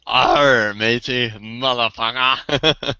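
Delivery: lightly voiced pirate growl; hammed-up pirate, slow on the last word; a hint of a pirate. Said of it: "I call it the double pirate".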